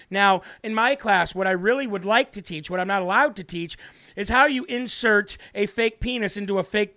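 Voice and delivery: lightly put-on, mocking teacher voice; mocking teacher impression. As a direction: mimic the teacher with mild derision. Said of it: "what he really wanted to say was this".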